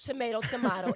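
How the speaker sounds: "tomato" with AY, then "tomato" with AH; two pronunciations of tomato. Shown as a demonstration. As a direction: contrast tuh-MAY-toh and tuh-MAH-toh.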